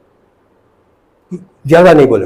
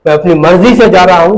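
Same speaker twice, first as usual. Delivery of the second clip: retold firm declaration; 5 semitones higher, 6 dB louder than usual. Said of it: "तो शकील ने कहा".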